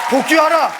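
mock command voice. Rocket command voice.

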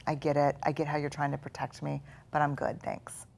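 soft, gentle brush-off; calmly thanking the inner critic; calm reassuring reply. Shown as a demonstration. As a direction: answer the voice kindly and softly. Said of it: "what you do is say".

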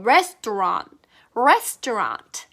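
restaurant slowly, the final T optional; restaurant drill. Shown as a demonstration. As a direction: model restaurant slowly, T light at the end. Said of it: "끝에 T 발음을 해도 좋고요".

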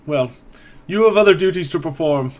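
put-on old caretaker waving the priest away; lightly voiced curt old man; dismissive elderly man.

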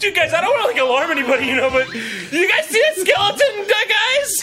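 stoner. Acted. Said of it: "one guy is hallucinating a skeleton".

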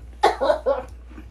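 gagging cough. Real, not acted. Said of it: "gagging so bad".

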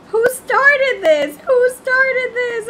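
loud slow outcry. Real, not acted. Game chaos.

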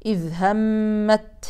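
همت with the final ta pronounced, slow; pausal reading. Shown as a demonstration. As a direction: stop on همت and voice the ta. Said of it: "تقرأ فقط إذا وقفت عليها". (وقف على التاء)

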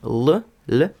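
isolated soft Л sound; soft British L. Shown as a demonstration. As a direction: say Л lightly and softened, as in British English. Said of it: "досить м'яко".

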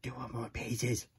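soft, dismayed murmur; quiet dismay. Acted. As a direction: mutter it in quiet despair. Dismayed realisation.

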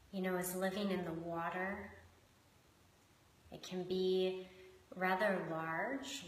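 measured meditation guiding with long pauses; guided meditation. Acted. Host guiding listeners into connection with shark and hummingbird, unhurried meditation voice. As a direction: lead them gently inward, leaving space between phrases.

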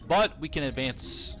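talking with a cough drop in mouth; words round a lozenge; mouth full. Real, not acted. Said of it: "I do have a Halls in my mouth right now".

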